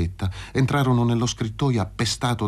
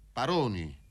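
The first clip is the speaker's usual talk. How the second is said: hushed call from the dark; a soft, understated hollow call; cavernous voice; 2 semitones higher, 9 dB quieter than usual. A narrator's reading. Figure lurking in the alley calls Paroni, hushed cavernous voice. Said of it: "chiamò una voce cavernosa".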